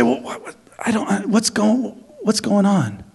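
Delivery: lost in the crowd, asking softly; confused bystander. Retold or imitated. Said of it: "They would say".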